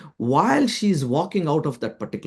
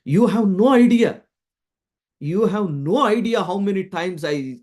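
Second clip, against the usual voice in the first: indignant reaction; 4 semitones higher than usual. Retold or imitated. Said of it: "she immediately reacted to me".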